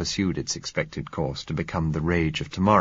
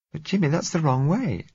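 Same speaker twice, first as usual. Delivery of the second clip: put-on higher, pleading scared girl's voice; frightened young girl; 10 semitones higher than usual. A narrator's reading. Blind girl begging Jimmy not to leave, frightened. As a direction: plead with him, fear rising.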